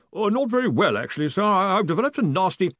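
high, hesitant complaint; meek underling. A narrator's reading. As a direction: timidly begin a tale of woe. Meek underling starts reporting his ailments.

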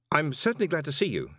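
nervous croak of a startled man. A narrator's reading. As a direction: force it out through a tight throat. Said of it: "he croaked".

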